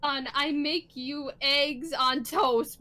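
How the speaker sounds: 1 stilted mother voice. Acted. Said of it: "who the hell talks like this".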